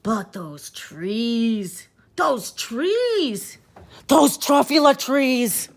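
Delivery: building from slow awe to a loud cry; rapturous exclamation. Acted. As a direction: rise to a joyful shout over the trees. Rapturous exclamation over the trees.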